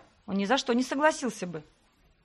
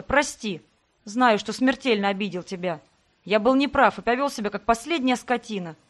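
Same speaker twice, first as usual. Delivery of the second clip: pleading man; 3 dB louder than usual. Acted. Sebastian begs forgiveness.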